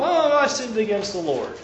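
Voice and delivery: mock-flippant, tossed-off admission. Preacher mocking a careless confession, flippant. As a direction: shrug it off like no big deal. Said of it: "no flippant attitude here".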